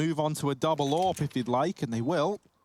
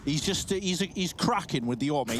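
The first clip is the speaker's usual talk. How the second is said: a light take on Rush, a German and Sheffield mix; Rush impression. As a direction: hype up the play as Rush would, lightly accented. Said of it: "that's my Rush impression".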